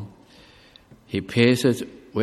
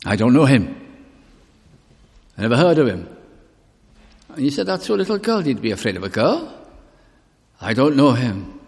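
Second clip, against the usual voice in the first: louder, insistent denial; a hint of frightened Peter denying his Lord; 3 semitones higher, 4 dB louder, faster than usual. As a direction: push him away with the words. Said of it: "to deny him".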